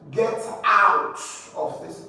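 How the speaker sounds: OUT drawn out in Get out of this; stretched emphasis on the word out; emphatic stress. Shown as a demonstration. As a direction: lean slowly on OUT in Get out of this. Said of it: "emphasize a word".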